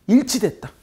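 일치됐다 punched high and loud; emphatic key word. Shown as a demonstration. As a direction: land the word 일치됐다 with force. Teacher stressing key word.

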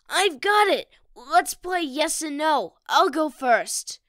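loud, bright burst of a new idea; child excited to start the guessing game with friends; eager excitement. Acted.

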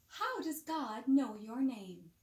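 ordinary delivery, nothing marked

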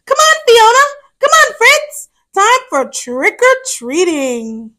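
high, loud eager call to friends; excited kids calling a friend; calling out excitedly. Acted. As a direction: shout it up high like a kid off to trick-or-treat.

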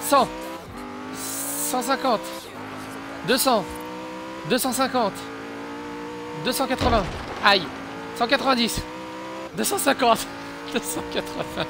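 annonce les vitesses avec excitation, plus aigu; excité. Real, not acted. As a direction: compte la vitesse qui monte, tout excité. (excité)

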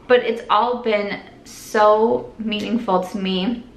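slow, careful, fighting tears; slow down so you don't cry; holding back tears. Real, not acted. Thanking her followers, slow and close to tears. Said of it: "try really hard not to cry".

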